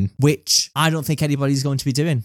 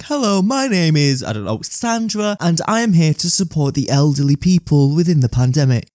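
robot voice. Retold or imitated. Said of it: "in a robot voice like".

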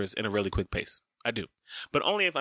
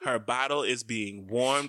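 slow, deliberate status report, mildly projected; projecting; slower than usual. Retold or imitated. Dad updating his partner over a crying baby, projecting. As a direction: announce it word by word, over-clearly. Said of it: "screaming this".

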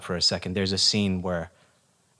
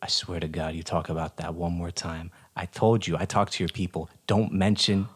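low hushed warning; 3 semitones lower than usual. Acted. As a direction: threaten him under the breath. Quiet threat off camera.

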